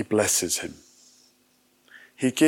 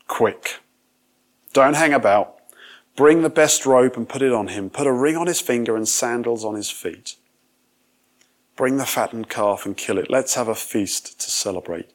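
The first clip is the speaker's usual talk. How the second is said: louder, brisk commands to the servants; urgent orders; 4 dB louder than usual. Acted. Joyful father ordering his servants to prepare a feast, loud and urgent. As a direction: call them out, hurry everyone along.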